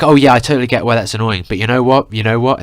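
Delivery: mock a know-it-all cousin; stupid annoying voice. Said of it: "she did it in this stupid, annoying voice".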